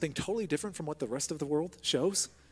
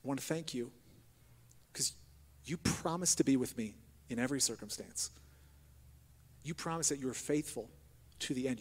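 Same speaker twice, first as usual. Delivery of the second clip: demo prayer; 2 semitones lower than usual. Shown as a demonstration. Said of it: "change the tone of your voice".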